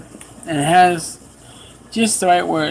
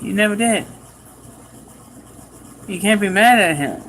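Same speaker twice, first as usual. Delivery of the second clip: hurried soothing plea to her husband; pleading mother; 3 semitones higher than usual. Retold or imitated. Mother pleading with angry husband, lightly raised voice.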